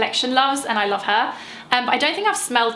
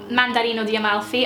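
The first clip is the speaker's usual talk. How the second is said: light Italian accent. Shown as a demonstration. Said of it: "I have to say it in my Italian accent".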